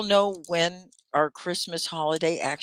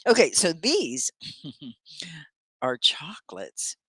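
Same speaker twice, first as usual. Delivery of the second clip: whisper. Real, not acted. Revealing chocolates to class.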